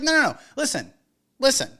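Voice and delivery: a hint of a cocky vendor; confident vendor. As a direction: play the in-demand vendor laying down terms. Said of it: "it's like".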